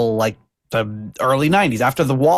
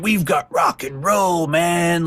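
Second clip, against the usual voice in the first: higher, drawn-out rocker's cry; rallying cry; 5 semitones higher, much slower than usual. Acted. Host voices rock fans rallying everyone, fired-up cry.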